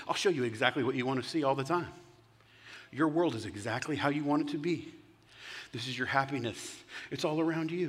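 mock-soothing sales pitch, understated; sarcastic. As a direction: promise it all with quiet sarcasm. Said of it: "sense the sarcasm in that tone of voice".

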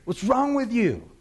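loud, high, drawn-out taunt; razzing yell. Acted. David razzing Abner across the distance, yelling. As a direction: holler it down at him to needle him. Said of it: "He's razzing him".

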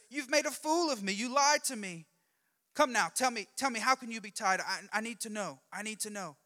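high, loud accusing Delilah, easing as she pleads; indignant confrontation. Acted. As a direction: accuse him, then press him for the answer. Delilah confronts Samson after his lie.

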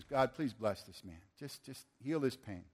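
quiet retold blessing; gentle prayer. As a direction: pray tenderly over a hurting man. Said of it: "lays his hands on his beautiful face".

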